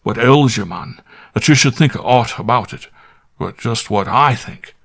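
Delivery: half-angry squire. Acted. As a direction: grumble and coax by turns, a country squire with a temper. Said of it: "but not quite so angrily as before".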